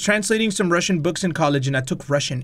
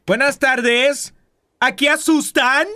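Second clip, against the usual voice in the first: mock spooky host; 7 semitones higher, 3 dB louder than usual. Mock spooky greeting in Spanish.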